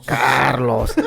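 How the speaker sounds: "Carlos" with a hammed-up rolled R, mock Spanish accent. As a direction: roll the R in "Carlos" like a try-hard Spanish accent. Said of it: "And they say it like that".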